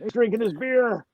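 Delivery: Hillbilly voice. Retold or imitated. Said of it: "doing the Hillbilly voice".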